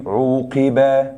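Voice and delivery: عوقب very slow, long "oo" then "qiba"; passive sound demo. Shown as a demonstration. Teacher drilling the passive sound, slow stretched عوقب. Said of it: "احفظ الأصوات".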